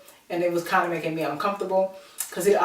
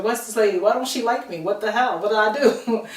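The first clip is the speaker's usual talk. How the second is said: higher, exasperated questions; bewildered retelling; 4 semitones higher, 4 dB louder than usual. Retold or imitated. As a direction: replay your baffled protest in quick questions. Retold bewildered reaction to woman.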